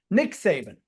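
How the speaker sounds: talking without teeth, lisping mush; words blurred by a toothless mouth. Real, not acted. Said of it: "it's hard to talk with no teeth".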